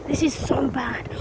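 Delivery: whispered in mock dismay; half-acted hushed despair. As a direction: breathe it out like it's hopeless. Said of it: "you can look at it from two different perspectives".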